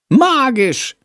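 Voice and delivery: high, dreamy little bat; enthusing. A narrator's reading. Chandor enthusing about the star, high and dreamy. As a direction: gush it in wonder. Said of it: "schwärmt Chandor".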